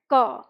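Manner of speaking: क said alone as "ka", with its short vowel; inherent a added. Shown as a demonstration. Teacher shows the consonant made pronounceable, क voiced as "ka". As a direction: sound out क with the "a" included. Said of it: "एक मात्रा लगा देते हैं अ".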